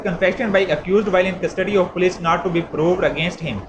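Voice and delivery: slow, deliberate reading of the article title. Shown as a demonstration. Law lecturer reads article title to students, slow and deliberate. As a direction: read each word out slowly, like dictation.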